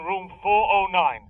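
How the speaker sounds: each number set apart slowly; dictating the room number slowly; slow, spelled out. Acted. Dictating a room number slowly over the phone. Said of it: "I'll repeat it".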